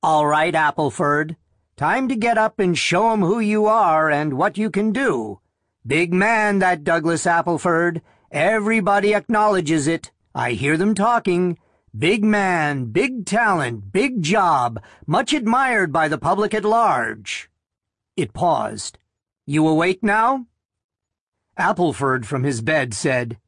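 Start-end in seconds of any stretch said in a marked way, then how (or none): 0.0-17.5 higher, penetrating machine voice; a talking alarm clock waking its owner; mechanical alarm voice. Acted. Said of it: "a penetrating mechanical voice declared". 19.5-20.5 higher, penetrating machine voice; a talking alarm clock waking its owner; mechanical alarm voice. Acted. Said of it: "a penetrating mechanical voice declared".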